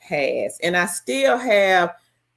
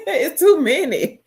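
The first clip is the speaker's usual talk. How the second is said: louder, laughing through it; 10 semitones higher, 5 dB louder than usual. Real, not acted. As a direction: laugh as you repeat it. Repeats it laughing.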